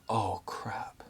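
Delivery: breathy, voiceless "oh, crap"; hushed sinking whisper of dismay. Retold or imitated. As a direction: whisper it as dread sinks in. Realising the attack isn't easing.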